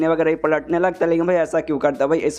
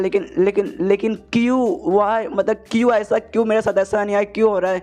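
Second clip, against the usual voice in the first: mock indignant protest; 4 semitones higher than usual. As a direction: whine it like he's been wronged. Jang protests his library ban.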